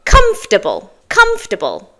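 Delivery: comfortable in three syllables, as COMF-tuh-bul; correct pronunciation. Shown as a demonstration. Teacher models the first difficult word, correct pronunciation. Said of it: "But it's comfortable".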